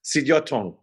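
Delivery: Sidiotong said clearly as the owner says it, even fall at the end; name said by its owner. Shown as a demonstration. Guest teaching the host his name, careful and clear. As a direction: give the true sound of Sidiotong, syllable by syllable. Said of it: "how do I say your last name".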